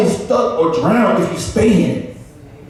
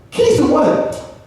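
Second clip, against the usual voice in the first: high, slow, stunned question; amazed; 10 semitones higher, slower than usual. Retold or imitated. Friend asks about the keys, high and slow in disbelief. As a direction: stretch it out in disbelief. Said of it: "my other friends were like".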